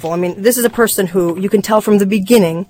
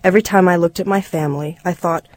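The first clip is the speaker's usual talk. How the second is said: measured memoir reading; story narration. A narrator's reading. Reader telling listeners of the broken family, story narration. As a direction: read it as a reflective story, phrase by phrase.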